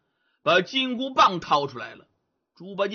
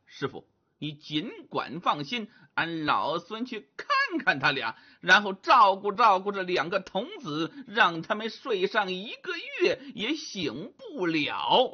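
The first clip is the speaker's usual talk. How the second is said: lightly voiced Monkey King pleading his case; Sun Wukong, reassuring. Wukong promises his master to get everyone out, reassuring.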